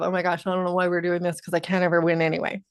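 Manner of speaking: fast, mildly deflated grumble; a touch of self-pitying gloom; defeated energy. Shown as a demonstration. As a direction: rush it out like you've already lost. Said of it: "than to be in the energy of".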